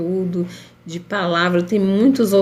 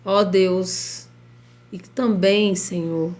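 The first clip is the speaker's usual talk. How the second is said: prayer. Acted. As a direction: pray earnestly over the listeners. Leads a live prayer.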